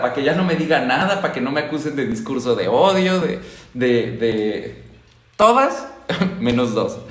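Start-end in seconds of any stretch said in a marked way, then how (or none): 5.4-7.0 laughing. Real, not acted.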